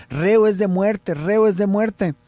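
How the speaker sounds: hammered out like an angry mob; crowd's shout. Retold or imitated. Host retells the crowd demanding Jesus' death, loud mock chant. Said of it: "Empiezan a gritar".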